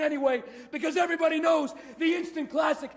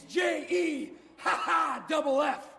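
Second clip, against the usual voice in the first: laughing mockery; much slower than usual. Mocking name with laugh.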